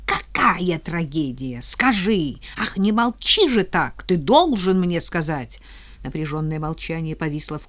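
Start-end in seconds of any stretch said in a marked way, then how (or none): 0.1-5.6 rising louder insistent plea; pleading demand. Acted. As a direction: beg and demand it. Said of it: "Вампирша впилась мёртвой хваткой".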